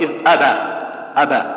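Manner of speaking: أبى with the B opening straight into its vowel; basic qalqala only. Shown as a demonstration. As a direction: say إذ أبى without extra bounce on the consonant. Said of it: "فيها أصل".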